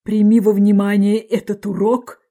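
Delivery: put-on slow, moralising old crab. A narrator's reading. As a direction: lecture a child ponderously, drawing words out. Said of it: "А старый краб". (медленно, назидательно, как старый краб)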